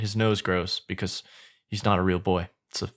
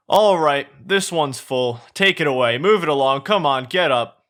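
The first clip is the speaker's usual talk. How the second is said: lightly acted guard, raised voice; guard giving orders; 4 semitones higher, 5 dB louder than usual. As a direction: move prisoners along, a touch louder and higher. Head guard ordering prisoners along.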